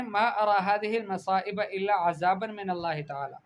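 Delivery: "عذابا" said azaban with a z; mispronounced ذ. Shown as a demonstration. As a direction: read "عذابا" wrongly, z for ذ. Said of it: "بابا عذاب نہیں ہوتا".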